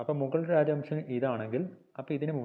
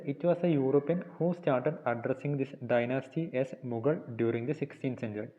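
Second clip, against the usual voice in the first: reads English notes slowly, word by word, for copying; slow dictation reading; much slower than usual. Shown as a demonstration. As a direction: dictate each phrase slowly so students can write. (പതുക്കെ dictation വായന)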